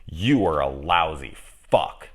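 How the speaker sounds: slow, deliberate retold insult; coming at him. Woman comes at her ex in a retold row, slow put-down. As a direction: spell out the insult, word by word. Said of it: "she just comes at him".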